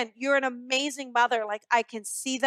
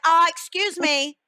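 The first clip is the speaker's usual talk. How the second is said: higher, playful mock cat voice; cat's voice; 4 semitones higher, 4 dB louder than usual. Medium voicing the late cat to its owner, higher mock cat voice. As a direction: pipe up like a cat demanding notice. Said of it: "Cat's like".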